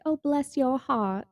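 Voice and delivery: slow, snide "Oh, bless your heart"; drawn-out mock-sweet "Oh, bless your heart" with a sneer; backhanded. Shown as a demonstration. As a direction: say "Oh, bless your heart" but mean go away. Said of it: "in the, you know, F you kinda way".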